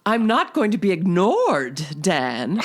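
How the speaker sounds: a hint of a spurned lover; movie quote. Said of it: "You gave away some of my thunder".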